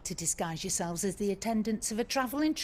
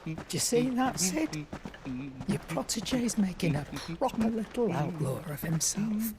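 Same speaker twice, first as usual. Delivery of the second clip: whispered aside; 3 semitones lower than usual. Acted. Aside to a departed friend.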